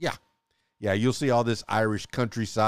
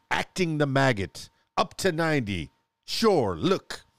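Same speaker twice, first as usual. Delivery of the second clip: mock Irish accent; 3 semitones higher than usual. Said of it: "sound like a pirate".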